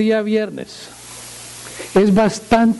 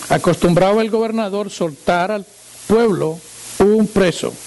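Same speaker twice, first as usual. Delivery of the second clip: raised, measured reading voice; scripture reading; 3 semitones higher than usual. Acted. Preacher reading Matthew to the congregation, solemn reading. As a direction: read the passage aloud, solemnly.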